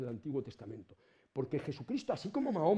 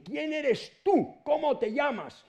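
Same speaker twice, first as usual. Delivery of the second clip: questioning Moses; 11 semitones higher, 4 dB louder, much slower than usual. Acted. Moses asks God his name.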